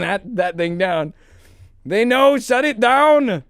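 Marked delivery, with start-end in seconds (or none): 1.9-3.4 put-on slow, heavy Austrian-accented "shut it down"; a light Schwarzenegger-style Austrian accent, drawn out; Arnold Schwarzenegger accent. Streamer mocking internet censors in a light Austrian accent. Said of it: "That was like Arnold Schwarzenegger".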